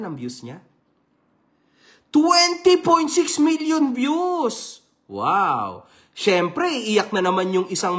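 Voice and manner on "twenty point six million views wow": slow, drawn-out announcement; exaggerated awe at the count; mock amazement. Real, not acted. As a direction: announce the number like a big reveal. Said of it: "announcing views".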